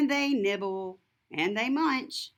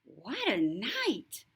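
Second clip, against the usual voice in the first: lightly voiced grumbling mole; muttering mole. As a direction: mutter it, then lift on storm. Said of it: "Mole mutters".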